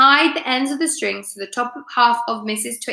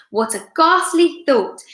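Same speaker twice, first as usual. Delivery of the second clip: mock horror; 5 semitones higher, 3 dB louder than usual. A narrator's reading. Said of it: "exclaimed Mister Twit".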